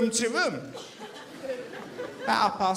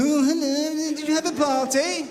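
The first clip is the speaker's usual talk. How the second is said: sarky hello; 4 semitones higher than usual. Retold or imitated. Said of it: "Sarky bastards".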